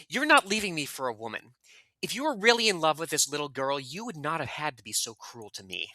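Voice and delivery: lightly voiced Giovanni, hurt and accusing; read as Giovanni. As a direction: read Giovanni's lines with a touch of wounded bitterness. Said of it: "you're gonna be Giovanni".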